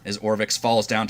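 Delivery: measured scene-setting with pauses; game master narration. Acted. Game master tells players how Orvix falls, measured narration. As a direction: describe the action deliberately, beat by beat.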